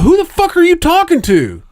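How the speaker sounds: loud, high exasperated yell at the cousin; shouting. Retold or imitated. Friend retelling the lazy-eye story, yelling at his cousin. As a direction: blurt it out, fed up and confused.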